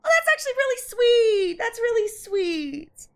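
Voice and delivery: moved to tears, voice breaking; real crying over a sweet ending. Real, not acted. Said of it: "I'm snotting up a storm from crying".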